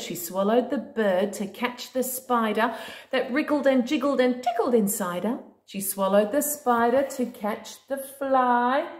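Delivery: singsong storybook read-aloud; reading to a toddler. Acted. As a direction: read it like a bedtime book. Reading a picture book to a child.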